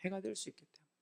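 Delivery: very soft, almost under the breath; hushed repeat. Real, not acted. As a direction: echo it very quietly. 같은 말을 낮춰 되풀이. (아주 작게 되뇌듯)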